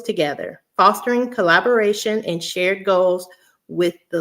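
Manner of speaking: measured read-aloud of a written statement; deliberate, formal reading. Real, not acted. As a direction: read it out carefully, phrase by phrase. Reads her written paragraph aloud.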